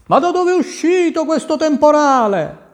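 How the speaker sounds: high, despairing cry to the storm; a captain at his wits' end, voice up high; despairing ship captain cries out against the storm; desperate captain. A narrator's reading. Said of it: "Il capitano si disperava".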